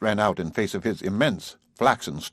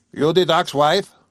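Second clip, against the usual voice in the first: put-on slow, loud, higher voice of a rough old farmer; gruff farmer; 7 semitones higher, 6 dB louder than usual. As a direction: demand it like a suspicious old man. Farmer father confronts her.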